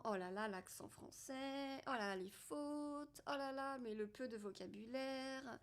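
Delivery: lightly voiced fault-finding inner voice; inner critic. Her inner critic listing her French faults, lightly mock-dismayed. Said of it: "mon mental arrive en me disant".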